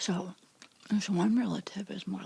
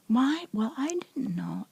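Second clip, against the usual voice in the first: mock sarcastic, higher and louder on "Why?"; imitating sarcasm; 5 semitones higher, 4 dB louder than usual. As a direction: toss off a mock sarcastic excuse. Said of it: "a sarcastic thing".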